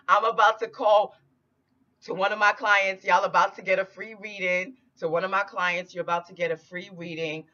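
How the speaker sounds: fast, high, eager rush; can't contain the excitement; excited. Real, not acted.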